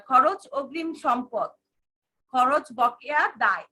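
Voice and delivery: slow, word by word for notes; slow dictation. Shown as a demonstration. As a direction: spell it out slowly so they can write. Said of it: "star চিহ্ন দিয়ে লিখে রাখো". (ধীরে ধীরে লিখিয়ে বলা)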